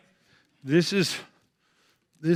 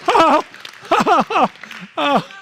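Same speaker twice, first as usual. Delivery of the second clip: straining shout; 8 semitones higher, slower than usual. Real, not acted. Comic balancing a chair on his face calls out to the crowd, strained.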